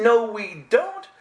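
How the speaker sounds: high, slow, put-out objection; indignant protest. Retold or imitated. Arguing back with God about her lost knowledge. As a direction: refuse it, hurt and stubborn.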